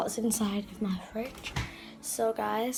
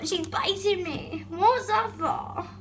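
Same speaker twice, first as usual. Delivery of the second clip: laughing through pain; 8 semitones higher, slower than usual. Real, not acted. Pet biting her.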